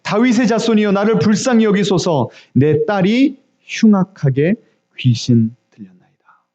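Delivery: imitated mother's plea, falling to a hush; acted desperate appeal; crying out earnestly. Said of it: "이렇게 부르짖었어요".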